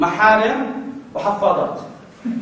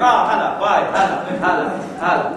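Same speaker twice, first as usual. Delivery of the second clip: phone chatter; 5 semitones lower than usual. Retold or imitated. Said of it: "زي لما بنحكي على التليفون".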